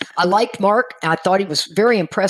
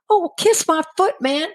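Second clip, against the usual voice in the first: mock indignant. Turned down by her best friend, mock indignant huff. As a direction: play offended pride, half joking. Retold huffy thought after rejection.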